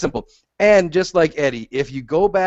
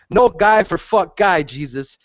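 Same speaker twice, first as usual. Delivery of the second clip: mock Yoel Romero; 3 semitones higher, slower than usual. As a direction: spell it out like a fighter who barely speaks English. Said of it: "he would have said something more like".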